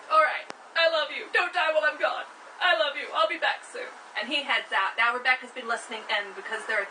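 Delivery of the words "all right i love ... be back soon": eager son. Acted. Eager son leaving on errand.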